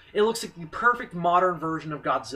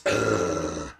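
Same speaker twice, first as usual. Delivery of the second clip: imitated bellowing roar; 12 semitones lower than usual. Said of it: "bellowing sound".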